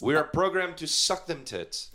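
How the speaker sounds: slow, lightly robotic monotone. Retold or imitated. Mocking his friend, slow lightly robotic recital. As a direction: spell it out like a lightly robotic machine. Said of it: "you sound like a robot".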